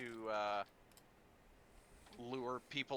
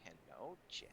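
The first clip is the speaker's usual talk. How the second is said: cooing to pet. Real, not acted. Talking fondly to the cat.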